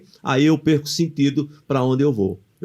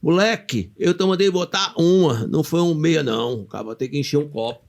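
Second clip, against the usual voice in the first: cheeky customer; 2 semitones higher than usual. Retold or imitated. Rude customer scolding the boy waiter, cheeky. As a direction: act out a pushy telling-off. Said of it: "o cara chegar abusado assim".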